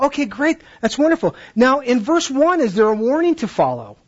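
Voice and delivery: put-on upbeat teacher to kids; bright teacher praise. Shown as a demonstration. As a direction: lift the voice and cheer them on. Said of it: "And then I'll go".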